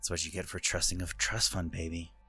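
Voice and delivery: hushed, muttered whisper under the breath. During a role-play game scene, the character whispers under her breath. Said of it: "Corey kind of whispers under her breath".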